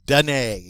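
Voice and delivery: "Donner" ending in a firm AY; final ER as A. Shown as a demonstration. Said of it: "It's always pronounced A".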